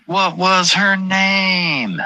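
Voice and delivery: high, slow stretched wail of the question; Kinison-style wail. Acted. Streamer trying to recall a name, wailing high and slow. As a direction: drag it out high like a rock singer. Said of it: "I feel like Sam Kinison".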